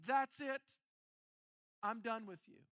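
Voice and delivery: loud, exasperated; mock fed-up God. God fed up with the runner, pretend loud exasperation. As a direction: slam the door on them.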